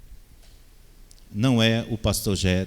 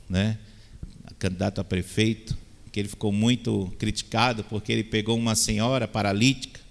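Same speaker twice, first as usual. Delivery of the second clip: normal talking voice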